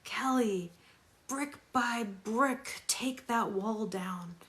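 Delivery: imitating ex-husband. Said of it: "my ex-husband saying to me".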